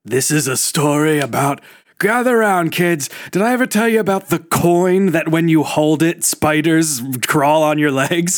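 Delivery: put-on spooky campfire tale for kids; creepy storyteller to kids. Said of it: "don't bastardize my brilliant bit".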